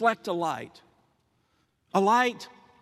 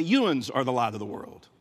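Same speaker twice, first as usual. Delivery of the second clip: Appalachian accent; 7 semitones lower than usual. Shown as a demonstration. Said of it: "If you're from rural Appalachia".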